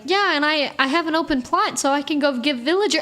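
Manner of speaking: mock-eager game demonstration; eager showing-off. Showing parents the new game, eager and upbeat.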